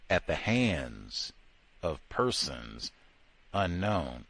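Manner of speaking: slow, low, dragged-out mock solemnity. Sarcastically repeating the official lynching verdict, slow and low.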